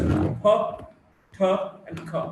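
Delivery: "p, t, and k" with a puff of air; aspirated. Shown as a demonstration. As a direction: release "p, t, and k" with audible aspiration. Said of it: "Initial position of stressed syllable".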